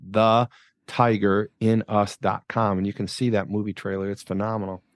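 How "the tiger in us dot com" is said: slow, each word spelled out; slow repeat. Shown as a demonstration. Host repeating his website slowly for listeners. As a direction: say the web address slowly so it sticks. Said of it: "So you can go to the tiger in us dot com".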